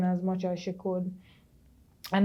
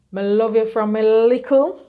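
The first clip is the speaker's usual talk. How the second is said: loving declaration; 3 semitones higher, 9 dB louder than usual. Real, not acted. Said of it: "declaring love to cousin Annie".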